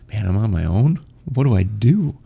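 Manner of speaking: lightly acted self-doubt; worried former self. Voicing own old worried reaction.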